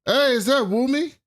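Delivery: delighted fan greeting a star; excited fan. Real, not acted. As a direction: gush over a favourite actor, up high. Excited fan spots a favourite.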